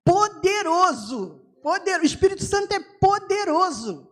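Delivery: normal talking voice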